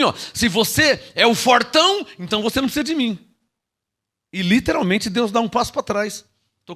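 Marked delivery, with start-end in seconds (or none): 0.3-3.2 high, loud voicing God's words; shouted divine rebuke; mock God voice. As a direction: speak as God, booming. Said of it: "Deus entende assim".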